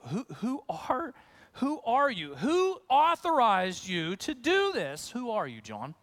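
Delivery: a touch of mock confusion; confused questioning. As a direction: ask it as if baffled. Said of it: "They're, they're confused".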